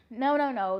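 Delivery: loud, emphatic no no no. Real, not acted. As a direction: shut the idea down firmly. Emphatic denial after joke.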